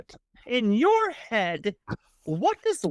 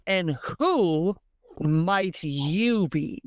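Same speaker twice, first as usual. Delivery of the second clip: put-on playful English accent, drawn out slowly; slower than usual. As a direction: introduce yourself coyly with an English accent. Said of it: "her English accent cuts through".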